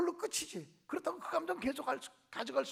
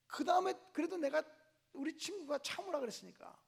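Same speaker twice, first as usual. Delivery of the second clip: ordinary talk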